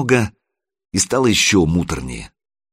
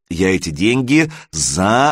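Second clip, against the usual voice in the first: ЗАРАБОТАЛ broken into separate syllables; emphatic insistence. A narrator's reading. Son insists money was earned.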